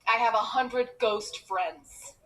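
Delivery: slow, deliberate sarcastic delivery; deadpan sarcasm. Retold or imitated. Child sarcastically answering mom about faraway friends, deadpan. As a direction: spell it out drily, slowly.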